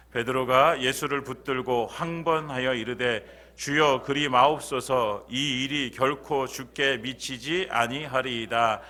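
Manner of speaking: slow, measured scripture reading; slow solemn Bible reading. Acted. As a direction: read the verse slowly and solemnly. Pastor reads scripture aloud.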